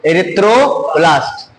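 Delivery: drawn out erythroblast, syllable by syllable; teacher modelling "Erythroblast" very slowly; slow model word. Shown as a demonstration. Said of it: "ये देखो".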